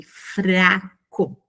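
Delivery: "fraco" said slowly with both F and R pronounced; "fraco", F running clearly into a tapped R; R sounded in FRACO. Shown as a demonstration. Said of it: "a gente também pronuncia o R".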